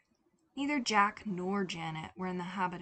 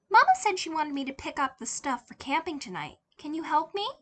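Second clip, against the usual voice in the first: put-on higher, louder little-kid voice with a lisp; childish lisp; 8 semitones higher, 8 dB louder, faster than usual. Boy fooling the cashier, innocent childish lisp. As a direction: play the innocent small child. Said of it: "a childish lisp coloring his voice".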